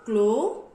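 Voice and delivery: "clo" punched loud, without the final th; first sound alone. Shown as a demonstration. Teacher showing children the first sound C L O, sounded out alone. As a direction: sound out "clo" loudly, rising. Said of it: "Say the first sound".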